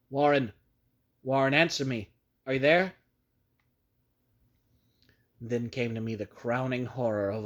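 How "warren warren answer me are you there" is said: louder, calling into the phone; desperate shout. Acted. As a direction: shout down the line for an answer. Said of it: "shouted, and screamed".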